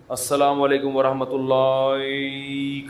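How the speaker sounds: slow, odd mock imam salaam; mocking imam's salaam. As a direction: parody the imam's drawn-out salaam. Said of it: "کر کے ادھر گھما دیا".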